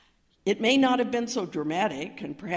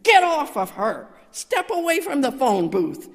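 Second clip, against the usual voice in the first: loud, high shout to stop an attack; shouted command; 8 semitones higher, 8 dB louder than usual. Retold or imitated. Chaplain running at the father beating the mother, shouting. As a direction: yell it forcefully across a corridor. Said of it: "I shouted".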